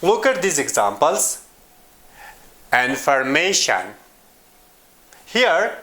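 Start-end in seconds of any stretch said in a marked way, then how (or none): 2.7-3.9 "Information" stressed on MA, falling after; "Information" as in-for-MA-tion, a careful word demo. Shown as a demonstration. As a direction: lean on the third syllable of "Information". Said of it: "me is the stressed syllable".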